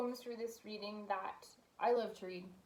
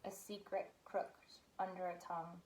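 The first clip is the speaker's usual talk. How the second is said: poet's reading voice, lingering on the phrases; poetry reading. Acted. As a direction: read it unhurriedly, with a pause after each image. Reads third poem aloud.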